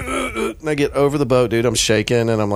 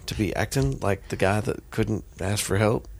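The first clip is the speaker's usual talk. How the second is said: inner voice; 2 semitones lower, 6 dB quieter than usual. Retold or imitated. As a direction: mutter it as a stern inner voice. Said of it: "That was the other voice".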